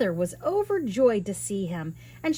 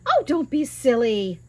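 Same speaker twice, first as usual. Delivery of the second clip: giant's wife, dismissive; 3 semitones higher, 5 dB louder than usual. Acted. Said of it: "the giant's wife said".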